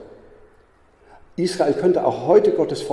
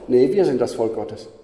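blunt; 3 semitones lower than usual. Real, not acted. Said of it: "Ich sag mal ganz schroff".

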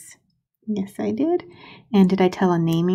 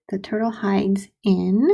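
slow; slower than usual. Shown as a demonstration. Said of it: "slow dictation".

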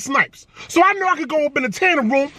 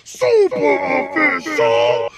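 hype intro. Acted. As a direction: fire up the audience. Hyped show intro.

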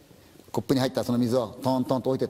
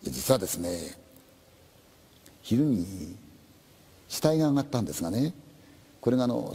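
reluctant policeman; 3 semitones lower than usual. Acted. Policeman reluctantly tells of the body, low and halting.

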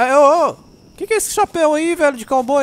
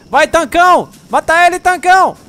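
excited cheering; 8 semitones higher, 8 dB louder than usual. Real, not acted. Cheering tank ally against dinosaur.

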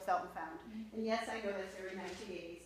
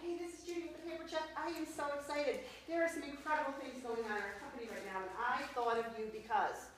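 energetic script; 3 semitones higher than usual. Shown as a demonstration. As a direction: pitch it with energy. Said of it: "gotta say it with energy and excitement".

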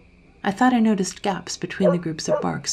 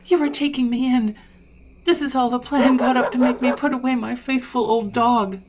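loud, raised-pitch accusation; yelling; 8 semitones higher, 5 dB louder than usual. A narrator's reading. Dog's owner accuses Sally of tricking him, yelling. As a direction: yell out the accusation in protest. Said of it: "I yelled".

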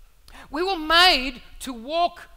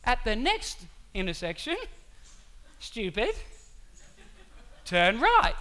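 lower, measured mock GPS voice; halting instruction, insult slipped in softly; GPS composing itself; 4 semitones lower, 6 dB quieter than usual. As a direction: deliver directions with restrained exasperation. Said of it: "Hang on, pull myself together".

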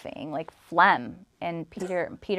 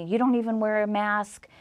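higher-pitched angry retort, imitated; retold anger; 4 semitones higher than usual. Landlord to tenants on her way out, mock angry. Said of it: "she's all angry".

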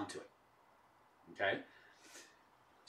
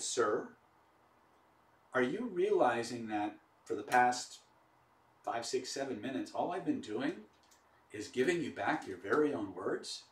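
humble, sincere. Retold or imitated. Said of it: "in the humblest, most sincere way".

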